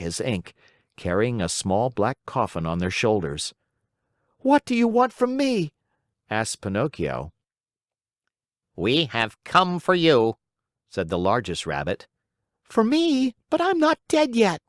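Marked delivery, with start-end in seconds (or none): 4.4-14.6 put-on very high, pleading puppet child; frightened puppet boy. A narrator's reading. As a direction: panic in front of the coffin. Pinocchio frightened by rabbits.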